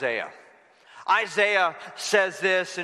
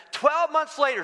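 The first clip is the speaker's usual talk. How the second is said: dramatic build; 8 semitones higher than usual. Shown as a demonstration. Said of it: "push the fast forward button".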